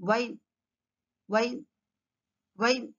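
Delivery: "వైన్" as wine, lips pushed forward; "వైన్" with no teeth on the lip; W sound. Shown as a demonstration. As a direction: start "వైన్" with a rounded W. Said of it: "Your mouth goes forward".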